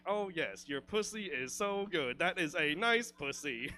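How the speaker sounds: lightly voiced robotic lover; mock monotone voice. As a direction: deliver bedroom talk with stiff, measured evenness. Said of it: "talk in that monotone voice".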